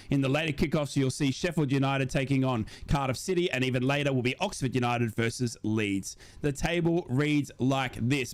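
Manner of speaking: steady presenter reading the scores; results read. Acted. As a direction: read the table like a sports bulletin.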